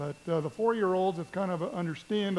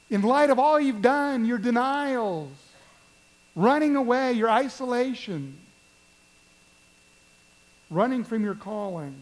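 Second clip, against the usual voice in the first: pleading; 3 semitones higher, 4 dB louder than usual. Acted. Jesus questions Peter.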